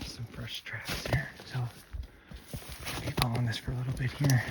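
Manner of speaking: slow, hushed whisper; wildlife watching whisper. Real, not acted. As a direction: whisper slowly, creeping along the tracks. Whispering on fresh deer tracks.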